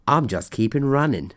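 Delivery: lightly put-on Australian accent; casual imitation of an Australian accent. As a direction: quote him in a hint of an Australian accent. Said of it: "That was my great Australian accent".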